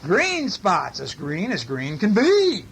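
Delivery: animated picture-book read-aloud; story reading. A narrator's reading. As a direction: read it with big, stretched key words.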